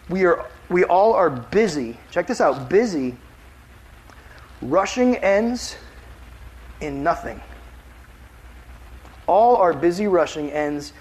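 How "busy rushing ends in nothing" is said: slow, broken-up reading with long pauses; halting slow reading. Shown as a demonstration. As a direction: read it haltingly, word by word. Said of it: "I read that wrong".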